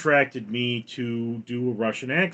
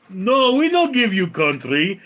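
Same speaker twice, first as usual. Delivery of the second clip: put-on loud, higher defiant refusal in a Slavic accent; Russian-style accent; 7 semitones higher, 6 dB louder than usual. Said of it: "And Ukraine goes".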